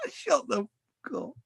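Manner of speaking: high, cracking laugh through the words; laughing outburst. Real, not acted. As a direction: burst out laughing mid-curse.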